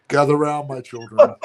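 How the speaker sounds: booming storyteller summons; horror host. Pretend. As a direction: call the children to gather. Mock elder summons.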